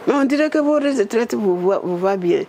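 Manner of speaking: teasing Prime Minister. Retold or imitated. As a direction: tease her about retirement.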